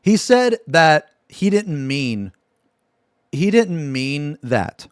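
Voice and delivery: drawn-out, slow and deliberate; slow reveal. Real, not acted. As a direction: spell out the absurd excuse slowly.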